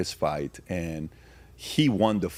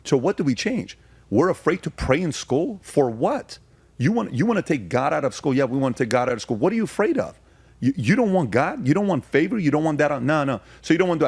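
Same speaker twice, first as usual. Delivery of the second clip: heated rant; 6 semitones higher than usual. Real, not acted. Challenging school prayer critics, a heated high rant. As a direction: fire the questions off with mounting heat.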